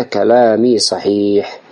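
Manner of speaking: slow, understated confidence while quoting; confident reply. Retold or imitated. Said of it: "أجاب بثقة".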